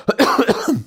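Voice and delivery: short dry cough; a real cough, then on; coughing fit. Real, not acted. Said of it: "Arada öksürüyorum".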